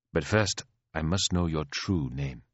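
lightly voiced, composed royal; courteous queen. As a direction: ask with quiet authority.

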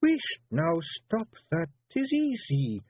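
high Scots snap, slow wheesht; wife snapping at her husband. A narrator's reading. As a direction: cut him off sharply, Feegle wife. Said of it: "snapped Jeanie".

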